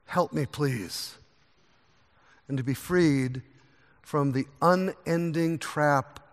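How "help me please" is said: faltering, much softer penitent prayer; humble plea. Retold or imitated. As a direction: pray like a broken man who dares not look up. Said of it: "that man who stands at a distance and says".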